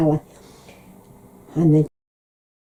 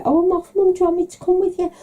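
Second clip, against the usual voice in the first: higher, louder bright daughter voice; imitating herself; 12 semitones higher, 5 dB louder, faster than usual. Daughter offers to go to town with her mum. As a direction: chirp it cheerfully to mum.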